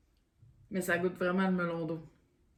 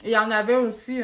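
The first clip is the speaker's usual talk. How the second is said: talking with a mouthful; mouth full; 8 dB louder than usual. Real, not acted. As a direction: speak round a bite of chocolate. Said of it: "je parle à la bouche pleine".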